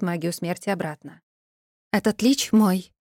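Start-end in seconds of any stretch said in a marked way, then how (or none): 1.9-2.9 slow, cool claim; cold statement. Acted. Heroine telling the necromancers the lich is hers, coldly. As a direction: lay claim icily and slowly. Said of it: "холодно произнесла я".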